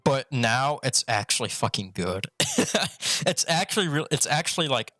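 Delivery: talking around a retainer; slightly lisped, retainer in mouth. Real, not acted. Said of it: "Sorry, I have a retainer in my mouth".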